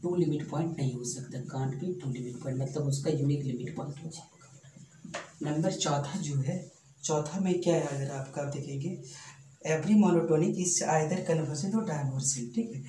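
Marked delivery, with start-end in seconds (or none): 1.5-2.6 slow and deliberate, word by word; slow dictation. Shown as a demonstration. Teacher dictating a theorem to students, slow and deliberate. 9.7-12.5 every word drawn out for note-taking; slow dictation. Shown as a demonstration. Teacher dictating a theorem to students, slow and deliberate.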